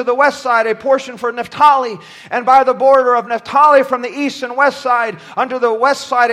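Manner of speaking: measured, formal Bible reading from the pulpit; steady recitation of verses; scripture reading. Acted. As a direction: read the list of tribes aloud, phrase by phrase. Reads scripture aloud.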